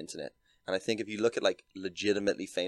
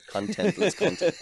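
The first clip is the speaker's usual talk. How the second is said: amused emphasis; 11 semitones higher, 5 dB louder than usual. Real, not acted. Repeating his own joke title.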